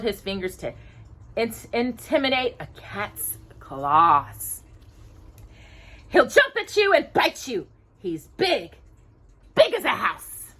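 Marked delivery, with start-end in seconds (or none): 6.1-10.5 higher, wide-eyed mouse warning; a hint of frightened Jacques; lightly voiced scared mouse. A narrator's reading. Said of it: "He's mean and sneaky".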